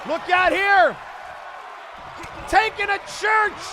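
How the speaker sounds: excited live ring commentary; wrestling commentator. Acted. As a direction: call the match blow by blow.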